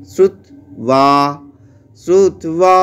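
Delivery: শ্রুত্বা said in one push, ব as ওয়া; Sanskrit pronunciation. Shown as a demonstration. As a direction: run শ্রুত্বা together in one breath, shru-twa. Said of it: "বলছি একসাথে এক ঝোঁকে". (এক ঝোঁকে শ্রুত্বা, ব-কে ওয়া)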